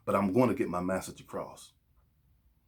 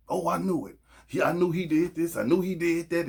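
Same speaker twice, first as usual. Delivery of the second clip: acted indignation; 6 semitones higher, 3 dB louder than usual. Acted outburst over a cheating partner.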